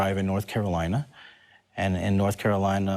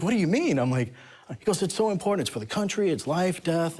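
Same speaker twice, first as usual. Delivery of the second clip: urgent; 8 semitones higher than usual. Retold or imitated. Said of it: "He's like".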